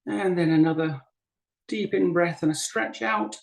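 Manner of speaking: unhurried guiding voice with long pauses; guided meditation. Acted. Teacher guiding a group to breathe and settle, guided meditation. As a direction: ease them gently through each breath, leaving space between phrases. Leads breathing and body practice.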